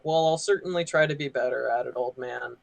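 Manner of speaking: understated, calm comeback that tails off quietly; calm retort. Retold or imitated. Retelling a reply to a rude customer, calmly. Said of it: "I just really calmly".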